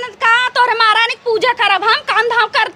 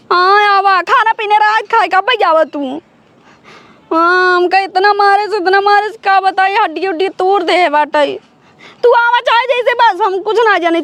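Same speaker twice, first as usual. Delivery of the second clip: tearful pleading. Acted. Beaten wife calling brother crying.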